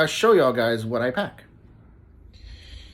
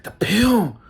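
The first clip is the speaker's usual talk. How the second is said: higher, pressed whisper; urgent stage whisper; 8 semitones higher, 5 dB louder than usual. Retold or imitated. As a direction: whisper hard so she finally gets it. Insisting to confused wife.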